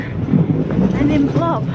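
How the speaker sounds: slow, lazy stretched-out "blob"; a playful slow drawl on "blob"; drawn-out blob. Real, not acted. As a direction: let "blob" sag out slowly like flopping on the couch. Comic flop after listing chores.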